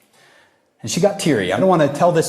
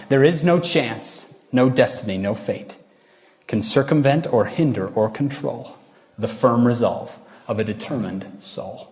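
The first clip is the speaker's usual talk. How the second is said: poem recitation again. Shown as a demonstration. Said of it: "I'll say it one more time".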